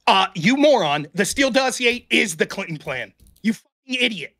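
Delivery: loud, slow insults at the opponent; calm turning angry. Real, not acted. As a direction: blow up at him, punching each word. Debater snaps at opponent.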